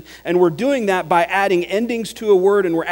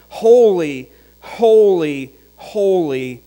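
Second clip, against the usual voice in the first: each holy rung out louder; crying out holy, holy, louder; loud call; 5 dB louder, slower than usual. Acted. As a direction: call holy out like the seraphim crying to one another. Angels calling out, scripture.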